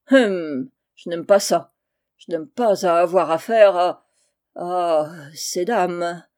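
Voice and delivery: wary, hesitant unease; reluctant grumble. Acted. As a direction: drag out the last words reluctantly. Holnick reluctant to deal with fairies. (réticence bougonne)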